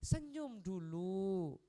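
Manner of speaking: very slow, drawn out; slow smile. Shown as a demonstration. Preacher showing wives to smile first, very slow. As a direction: stretch it like a gentle smile. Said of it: "Sampean ndak mau introspeksi".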